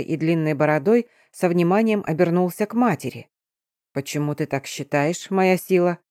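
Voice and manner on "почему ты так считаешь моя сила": gentle giant voice. Acted. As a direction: soften the giant's voice with respect. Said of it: "Голос великана чуть изменился. Вместо резких нот в нём появилась мягкость". (мягкий голос великана)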